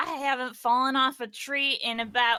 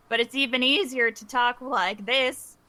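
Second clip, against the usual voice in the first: Nora voice. Shown as a demonstration. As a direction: switch into the other persona.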